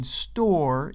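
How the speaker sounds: "store" drawn out with a beat; emphasized STORE. Shown as a demonstration. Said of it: "is emphasized".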